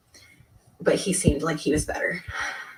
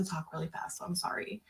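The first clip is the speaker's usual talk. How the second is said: whisper; 12 dB quieter than usual. Real, not acted. Quick apologetic aside.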